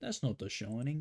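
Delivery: British caricature, "Shining" as "Shoning", rising; mock British accent. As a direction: put on British, round it to "Shoning". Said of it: "British people be like".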